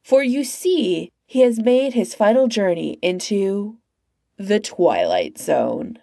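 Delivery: slow, measured Twilight Zone narrator; calm eerie narrator. Acted. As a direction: draw it out like a spooky TV host. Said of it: "continued talking calmly".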